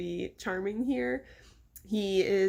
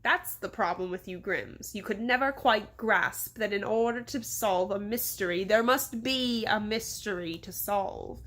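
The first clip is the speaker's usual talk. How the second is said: slow, condescending pronouncement; dismissive mayor; slower than usual. Acted. Mayor dismissing the Grimms' mystery, condescendingly. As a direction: lecture slowly, closing with finality.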